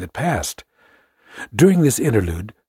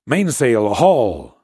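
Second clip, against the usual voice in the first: sudden sharp order, louder on haul; brisk shout; 2 semitones higher, 4 dB louder, much slower than usual. Acted. Officer ordering men on the main brace, brisk shout. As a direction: bark it to the hands. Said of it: "A sudden brisk shout".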